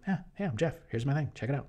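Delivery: high, easy-going hello; casual Jeff. Retold or imitated. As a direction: greet like a chill dude. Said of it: "He's just like".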